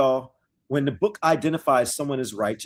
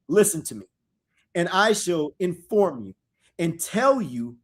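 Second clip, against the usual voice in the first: dramatic scripture reading. Acted. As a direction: proclaim the verses slowly to the congregation.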